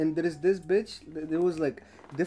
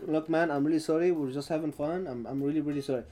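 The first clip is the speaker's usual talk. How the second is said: subdued apology; 4 semitones lower, 5 dB quieter, faster than usual. Retold or imitated. Retold apology to police officer.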